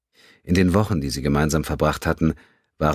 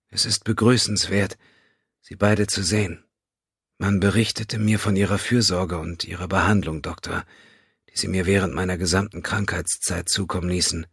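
Vulcan woman; 5 semitones higher than usual. A narrator's reading. Narrator voices weakened Vulcan Teprin.

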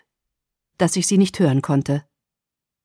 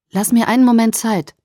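calling out; 2 semitones higher than usual. Acted. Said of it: "rief er gerade so laut".

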